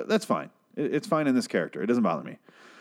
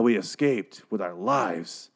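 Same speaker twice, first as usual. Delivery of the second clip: mock dramatic survivor; slower than usual. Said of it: "they were so like".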